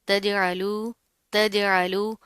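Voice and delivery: तजअलू with a bouncing j and clear throaty ain; qalqalah, clear ain. Shown as a demonstration. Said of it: "यहाँ पर कलकला होगा". (तजअलू, जीम पर कलकला, आइन वाज़ेह)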